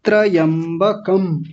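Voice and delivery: slow त्रयंबकम in parts tra, yamba, kam; separated syllables. Shown as a demonstration. Teacher separating parts for the class, slow split त्रयंबकम. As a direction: set kam apart at the end of त्रयंबकम. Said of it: "कम को अलग कर लीजिए".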